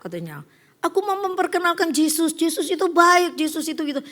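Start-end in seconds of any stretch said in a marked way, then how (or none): 0.8-3.8 street preacher voice. Retold or imitated. Evangelist preaching to train riders, lightly higher voice. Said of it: "Dia nginjil".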